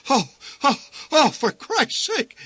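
high, panicky yelp at Christ's sake; high-pitched flustered yell; alarmed yell. A narrator's reading. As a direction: cry out in sudden dismay, slowing down. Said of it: "he yelled".

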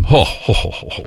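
airy, voiceless string of hos, fading away; awed exhale. Real, not acted. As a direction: let out an impressed whoosh of breath. Marvelling at a singer's voice.

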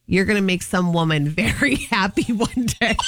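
dad's words, cracking up halfway; can't hold back a laugh mid-quote; laughing through it. Retold or imitated. Retelling dad's line to her cohost, laughing partway.

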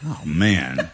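laughing while faking letdown, pitch jumping up; a joking complaint, chuckling through it; laughing mock disappointment. Host jokes about accent contract.

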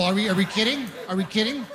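mildly incredulous, pitch lifted; mock disbelief at a child's shortcomings. Ranting about a bragged-about child.

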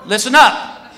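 mock official bellowing, stretched phrase ends; guard's public announcement. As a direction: call out to the whole queue. Guard announces to whole line.

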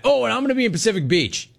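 high, fast whiny mimicry; high mocking voice. Host mimics caller mockingly.

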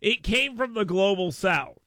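attempted Southern drawl; half-convincing Southern accent. Shown as a demonstration. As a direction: put on a rough Southern accent. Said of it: "I can do a Southern accent".

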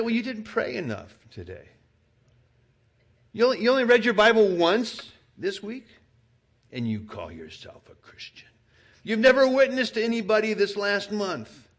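high, loud nagging accuser; a hint of a scolding devil; accusing devil. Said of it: "The devil might say".

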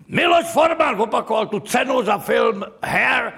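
high call to an absent winner; imitated ceremony announcer; shouted repeat announcement. Announcer repeats the unanswered award call.

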